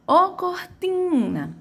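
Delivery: high, slow call of "ô cortina", TI held long; calling, stretched TI. Shown as a demonstration. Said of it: "que teve a maior tonicidade". (chamando "ô cortina", agudo, arrastando o TI)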